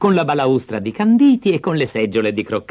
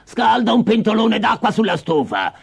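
bossy witch; 3 semitones higher than usual. Acted. The witch orders Gretel to heat the water. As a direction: order the girl about like a witch.

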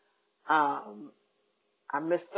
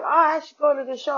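much higher mock Asian accent; imitated Asian accent; 10 semitones higher, 4 dB louder than usual. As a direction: chirp it in the driver's Asian accent, pitched way up. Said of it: "His accent was way too thick".

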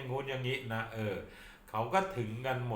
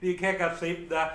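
mock secret; 6 semitones higher than usual. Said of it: "นี่กระซิบนะ".

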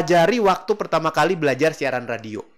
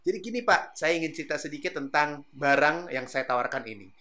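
relaxed sales pitch; 4 dB quieter than usual. Shown as a demonstration. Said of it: "agak nyender sedikit ke belakang".

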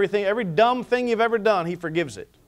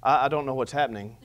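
bewildered laugh; 5 semitones lower, 5 dB quieter than usual. Retold or imitated. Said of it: "He said".

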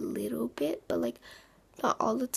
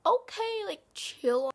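telling herself to chill; 8 semitones higher, 4 dB louder, slower than usual. Retold or imitated. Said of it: "So I'm like".

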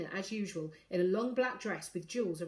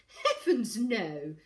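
lightly amused, louder exclamation; laughed-out dismissal; 3 semitones higher, 5 dB louder, much slower than usual. A narrator's reading. Ivy scoffs at everyone getting a bid, amused. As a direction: exclaim it with a touch of mockery. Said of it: "Ivy laughed".

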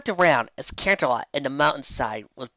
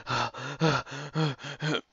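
half shout; 5 dB louder, slower than usual. Acted. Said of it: "he half shouted".

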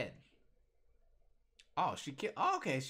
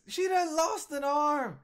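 hammed-up crying, much higher and louder, slow; cartoon lament; mock wail; 10 dB louder, slower than usual. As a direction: fake sob it out. Mock wailing over lost arm.

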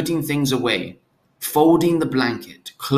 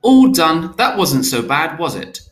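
louder, higher bright reassurance; cheerful; 4 semitones higher, 5 dB louder than usual. A narrator's reading. Father tells the newborn it is over, cheerfully. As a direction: cheer up the baby after the shot. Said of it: "his father say cheerfully".

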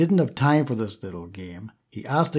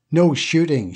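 insistent; 4 semitones higher, 4 dB louder than usual. Acted. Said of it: "she insisted".

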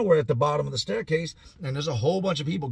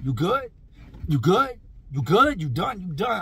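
demanding shout; 4 semitones higher, 3 dB louder than usual. Retold or imitated. Beating Bop, demanding he quit.

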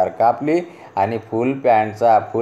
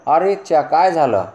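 high, loud startled cry of disbelief; astonished exclamation; 7 semitones higher, 3 dB louder than usual. Acted. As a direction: gasp it out as if you can't believe the trousers. Family sees shortened trousers. (उंच आवाजात आश्चर्याचा उद्गार)

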